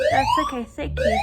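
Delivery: high polite voice. Real, not acted. Talking to staff politely.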